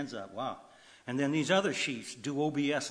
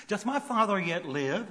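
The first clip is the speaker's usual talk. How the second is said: Joseph pleading louder; 7 semitones higher, 6 dB louder than usual. Acted. Preacher voicing Joseph asking after his father, urgent and louder. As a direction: lift it up higher and louder, urgent.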